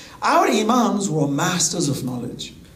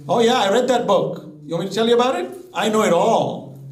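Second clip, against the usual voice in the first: cocky know-it-all, a little lifted; arrogant. Acted. Preacher mimicking a first-stage learner bragging, mildly arrogant. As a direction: lightly act out a dismissive boaster. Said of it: "they become arrogant".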